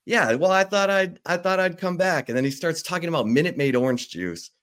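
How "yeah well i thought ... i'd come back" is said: wry quip. Retold or imitated. Knight's wry reply at conference.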